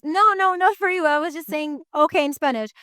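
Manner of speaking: high, animated "no, no, not for you"; excited protest. Retold or imitated. Retelling her own protest.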